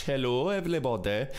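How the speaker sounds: badly faked Welsh lilt; terrible Welsh accent. Showing off the Welsh voice option, terrible Welsh accent. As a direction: have a light go at a bad Welsh accent. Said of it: "that is a terrible, uh, Welsh accent".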